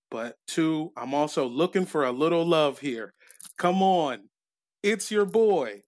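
lightly voiced boastful ballplayer, deliberate and emphatic; Alex Rodriguez. Host reads the ballplayer's letter bragging about his wife, lightly voiced. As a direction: play a self-satisfied letter writer, drawing out the big claims.

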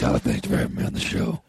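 very deep, fast reply; mock-serious self. Comic as his real self thanking host, very deep. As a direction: answer in an absurdly low voice, quickly. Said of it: "talk to the real comic".

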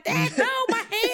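put-on high, whiny kid pleading; mock child's cry. Podcaster voicing the silent boy, high mock pleading. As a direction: squeak it out like a scared little kid.

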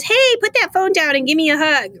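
imitated breezy hello; friendly call-out. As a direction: call out like an old pal, retold. Retelling her friendly greeting.

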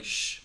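X said as a drawn "sh"; sh sound. Shown as a demonstration. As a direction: make "sh" a hushing consonant. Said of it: "like a sh sound".

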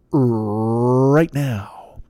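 a breathy whisper for the last words; whispered plug. Acted. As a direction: lean in and whisper the call to action. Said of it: "whispered plug".

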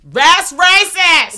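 slow, high, loud mock outrage; mock outraged shout. Cohost reacts to the white guy's "my man" with shocked outrage. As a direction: stretch it out in a big shocked yell.

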